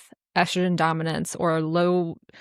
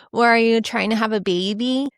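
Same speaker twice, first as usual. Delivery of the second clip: mock doctor; 4 semitones higher than usual. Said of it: "I was asked the same question".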